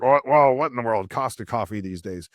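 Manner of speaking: a hint of a grumbling truck driver; gruff trucker. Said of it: "the angry trucker type or something".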